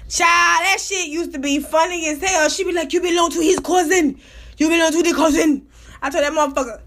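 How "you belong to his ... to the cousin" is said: mock Nigerian accent, emphatic. Rival accusing the speaker over his cousin, imitated Nigerian accent. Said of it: "she was Nigerian".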